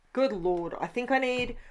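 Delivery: normal talking voice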